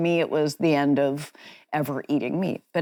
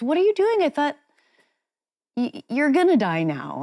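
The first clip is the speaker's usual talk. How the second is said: panicked frog; 8 semitones higher than usual. Retold or imitated. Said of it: "And he goes".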